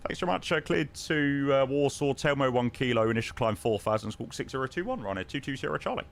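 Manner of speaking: brisk airline pilot on the radio; crisp professional ATC radio voice; pilot radio call. Acted. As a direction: read it back like a captain talking to tower. Pilot readback to control.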